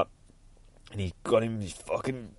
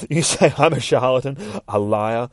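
dramatic villain read; 3 semitones higher than usual. Shown as a demonstration. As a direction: redo it with menace. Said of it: "Try that again".

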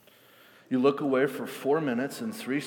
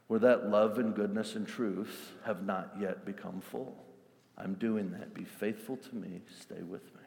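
voicing God gently. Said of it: "marching orders to say".

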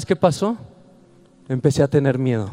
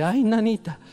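quejidito agudo de miedo fingido; susto imitado; 7 semitones higher than usual. Retold or imitated. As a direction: imita un susto leve, con voz más alta. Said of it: "los primeros sí era así de". (miedo fingido, en tono de broma)

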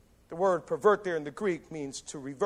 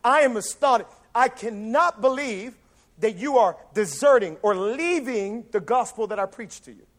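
upset Paul; 2 semitones higher, 3 dB louder than usual. Retold or imitated. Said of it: "Paul is like".

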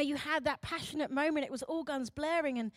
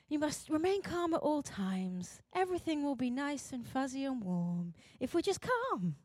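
mildly hammed-up British composure; affected calm; 4 dB quieter than usual. British voice of society preaching composure, mock-serene. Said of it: "it's that calmness".

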